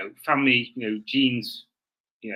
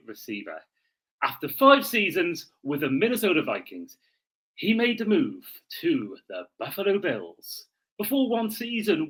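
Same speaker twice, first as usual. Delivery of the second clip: storyteller's once-upon-a-time read, swinging pitch; a mock-solemn fairy-tale narration; dramatic reading; 2 semitones higher than usual. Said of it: "do a dramatic reading".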